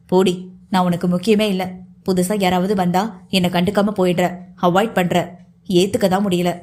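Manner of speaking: lightly voiced hurt man, slightly low; hurt, pining lover. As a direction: plead with a touch of lovesick reproach. (ஏக்கம் கலந்த லேசான ஆதங்கக் குரல்)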